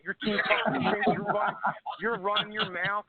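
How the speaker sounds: mildly mock an opponent's taunts; retold trash talk. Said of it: "just started talking shit".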